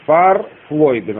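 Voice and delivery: Фарфлойген slowly, as one word with clear stress; stressed word demo. Shown as a demonstration. Teacher showing the word's stress, slow and deliberate Фарфлойген. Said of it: "Ударение".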